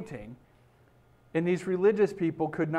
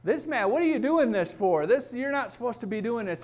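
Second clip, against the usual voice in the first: mock indignant protest, pitched higher; upset objection; 6 semitones higher than usual. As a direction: act out offended people telling someone off, raised pitch. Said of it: "People got upset".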